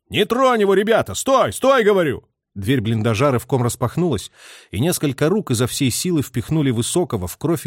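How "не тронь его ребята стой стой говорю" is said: high, excited cry to stop the men; shouting to hold the soldiers back. A narrator's reading. A soldier yells at comrades to spare the prisoner, excited shout. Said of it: "крикнул возбуждённо".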